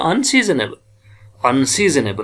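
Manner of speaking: अनसीजनेबल run together quickly as one word; teacher now reads अनसीजनेबल fast. Shown as a demonstration. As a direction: rattle off अनसीजनेबल at speed. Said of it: "इकट्ठे fast पढ़ेंगे".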